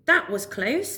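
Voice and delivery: high, breathless relief; relieved beaver. Acted. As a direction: sigh of relief after a narrow escape. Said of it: "thought Barry".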